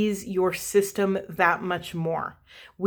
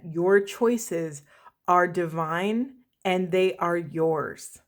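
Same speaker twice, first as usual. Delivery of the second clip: slower, each word weighed; slow emphatic repeat; slower than usual. Shown as a demonstration. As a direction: say it again slowly, meaning it. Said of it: "Let me say that again".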